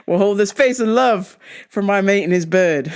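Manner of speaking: well-wishing while trying not to crack up; laughing. Real, not acted. Wishing her mate and his bird love, laughing. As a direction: say it through giggles.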